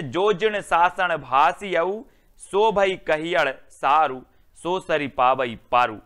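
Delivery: put-on slow, drawn-out old verse recitation; recited verse. Shown as a demonstration. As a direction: intone each old word slowly. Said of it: "next है".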